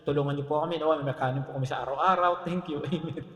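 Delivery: low, run-through sample prayer; lightly acted generic prayer. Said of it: "generic na prayer".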